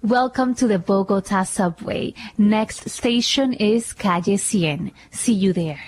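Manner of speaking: metro announcer. Shown as a demonstration. Second English take for the metro, slow announcer voice. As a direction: announce each word like a recorded voice. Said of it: "A ver".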